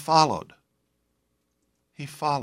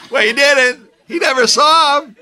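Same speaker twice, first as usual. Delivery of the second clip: high, loud, laughing insistence; amused exclamation; 10 semitones higher, 7 dB louder than usual. Real, not acted. Preacher explaining the blind man's joke, amused exclamation.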